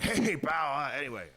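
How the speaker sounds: Vince impression. Vince voiced in retold story.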